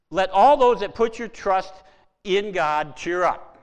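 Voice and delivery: emphatic scripture quote. Acted. Preacher quoting the psalm emphatically.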